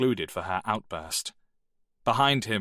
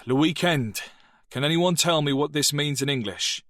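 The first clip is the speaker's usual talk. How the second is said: a higher, composed teacher's tone; 6 semitones higher, 4 dB louder than usual. Acted. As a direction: restart the lesson calmly.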